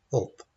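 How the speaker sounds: HELP squashed short, almost no E; unstressed, vowel removed. Shown as a demonstration. Teacher showing unstressed syllable, HELP with vowel taken out. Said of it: "Can we say it without a vowel".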